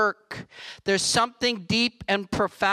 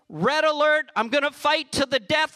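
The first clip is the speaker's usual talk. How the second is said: higher, fierce protective mother; 6 semitones higher than usual. Acted. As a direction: voice a mother ready to fight.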